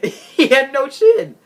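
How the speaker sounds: loud, slow words broken by laughter; laughing. Real, not acted. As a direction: crack up as you say it. Cracking up at the wrestler.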